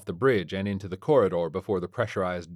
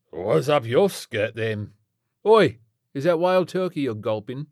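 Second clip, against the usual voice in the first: loud, high British rocker heckle; nosy old rocker calling out; aging British rock star; 5 semitones higher, 6 dB louder than usual. A narrator's reading. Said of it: "the rapidly aging British rock star".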